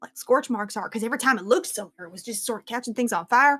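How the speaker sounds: animated squire describing a weird creature; lightly voiced excited squire. Squire describes fire-eyed creature to friends, lightly voiced and animated. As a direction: lightly act a rattled, chatty eyewitness. Game master plays squire Ara.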